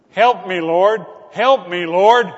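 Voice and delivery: loud, pleading shouts of Peter; desperate cry for help. Retold or imitated. Preacher voicing Peter crying out to the Lord, loud and desperate. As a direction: call out loud like a sinking man begging. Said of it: "He called out repeatedly".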